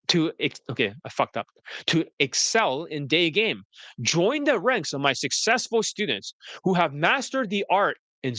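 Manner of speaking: pitchman's polished sales read; smooth marketer pitch; advice video voice. Acted. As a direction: sell the program like a confident ad. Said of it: "my, uh, advice video voice".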